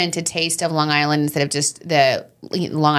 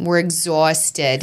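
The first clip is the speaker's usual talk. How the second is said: put-on slow, drawn-out Long Island accent; 2 semitones lower, much slower than usual. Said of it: "Your Long Island accent is getting good".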